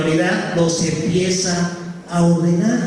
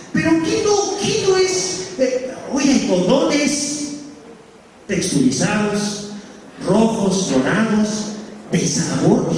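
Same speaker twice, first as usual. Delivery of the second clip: mocking teenager; slower than usual. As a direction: play a smart-aleck teen, drawn out. Youth mocking sermon.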